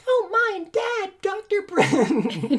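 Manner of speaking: put-on high slow falsetto young woman. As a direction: play the sweet daughter, high. Betty falsetto voice again.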